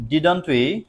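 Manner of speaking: slow, drawn-out dictation. Shown as a demonstration. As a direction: spell it out for the class. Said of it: "slow dictation". (ধীরে ধীরে বলা)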